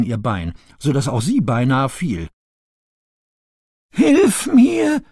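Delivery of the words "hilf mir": very high, many-voiced peep; peeping baby chick. A narrator's reading. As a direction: squeak it like frightened chicks. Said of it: "piepste es mehrstimmig neben Bo".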